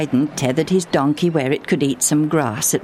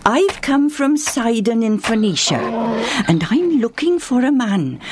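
stranger voice; 4 semitones higher than usual. Acted. Stranger from Sidon speaks.

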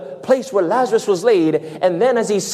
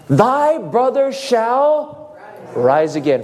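slow, lifted, solemn pronouncement; solemn Jesus voice; 5 semitones higher, much slower than usual. Retold or imitated. Preacher voicing Jesus to Martha, slow and solemn. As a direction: speak it like scripture, slowly. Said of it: "How did Jesus comfort the grieving".

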